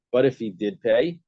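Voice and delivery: DID PAY stressed, rising at the end. Shown as a demonstration. Teacher showing Rava's emphasis, stress on did pay. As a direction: lift did pay as the condition. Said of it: "Rava's emphasis was".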